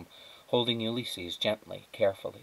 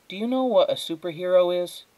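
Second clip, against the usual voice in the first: eager question; 9 semitones higher, 6 dB louder than usual. Acted. Flora eagerly asks squirrel.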